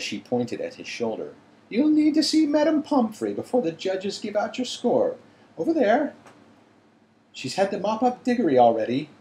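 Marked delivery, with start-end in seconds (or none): 1.7-9.1 stern teacher voice. A narrator's reading. McGonagall voiced, shaken.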